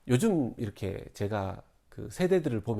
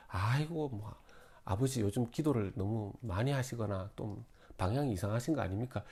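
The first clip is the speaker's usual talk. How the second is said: doubtful family; 3 semitones lower, 7 dB quieter than usual. Retold or imitated. Family doubting father's calling.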